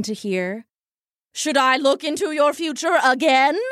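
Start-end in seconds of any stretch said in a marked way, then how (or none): 1.3-3.6 grand carnival seer voice; mystic soothsayer. Acted. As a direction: proclaim it like a stage psychic. Soothsayer performing.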